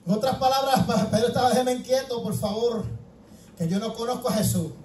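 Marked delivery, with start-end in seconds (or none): 1.5-4.7 lower, softer plea to be left alone; hushed acted brush-off; subdued denial. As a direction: shrug them off quietly as Peter. Acts Peter asking to be left alone.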